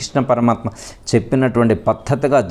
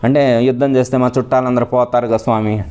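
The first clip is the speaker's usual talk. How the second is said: Arjuna pleading. Acted. Arjuna answers Krishna.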